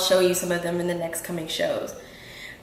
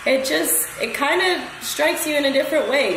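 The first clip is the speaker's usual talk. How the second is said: emotional; 5 semitones higher than usual. Real, not acted. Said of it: "I get very emotional".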